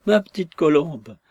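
a hammed-up tearful wail; near-sobbing lament. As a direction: lament to your wife as if about to sob. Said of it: "s'écria-t-il presque avec des sanglots".

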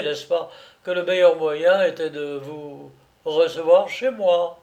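lightly voiced jovial captor, a touch lifted; genial captor. Captor justifying himself to his prisoner, mildly jovial. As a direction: explain yourself with mock courtesy and easy good humour.

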